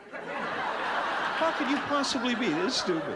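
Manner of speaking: sister's scornful slow drawl; exasperated sister. Retold or imitated. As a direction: spell out each word to a dim brother. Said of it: "my sister said".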